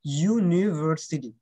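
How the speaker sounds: ইউনিভার্সিটি stretched out, each syllable clear; unhurried ইউ-নি-ভার-সিটি; slow careful model. Shown as a demonstration. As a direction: slowly model ইউনিভার্সিটি for the class. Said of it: "correct প্রনাউন্সিয়েশনটা শিখতে হয়".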